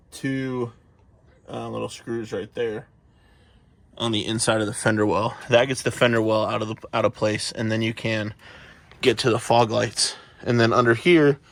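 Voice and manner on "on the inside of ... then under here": winded, out of breath from the stairs; talking while catching breath. Real, not acted. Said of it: "sorry, I'm out of breath".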